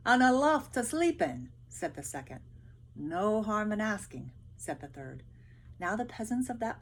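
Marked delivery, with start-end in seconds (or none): 0.1-1.5 higher, louder eager voice; second soldier dreaming of a loft; hopeful soldier. Acted. 2.9-4.3 slower, louder, matter-of-fact; practical soldier. Acted. Third soldier voiced in story.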